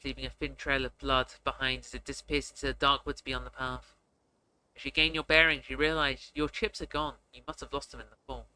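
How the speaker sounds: measured storyteller reading; story narration. Acted. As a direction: narrate the scene evenly, unhurried. Reads the game's narration aloud.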